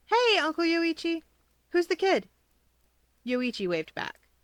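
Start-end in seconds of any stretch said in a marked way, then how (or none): 0.1-2.3 bright, higher and louder hello; cheerful greeting. Acted. Izuku greets his uncle across the library, brightly. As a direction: call out happily to a favourite uncle.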